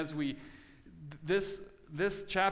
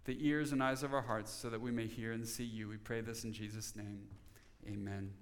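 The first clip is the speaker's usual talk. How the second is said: low, soft prayer voice; subdued and reverent; closing prayer; 6 semitones lower, 6 dB quieter than usual. Real, not acted. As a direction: pray it quietly, evenly, to a hushed close.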